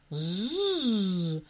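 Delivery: low buzzing hum; bee buzzing. Acted. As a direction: buzz like an angry bee. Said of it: "прожужжала обиженная пчела".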